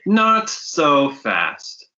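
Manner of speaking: menacing. Acted. Villain stops them leaving.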